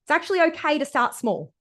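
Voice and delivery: coach voice. Retold or imitated. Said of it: "This voice says things like".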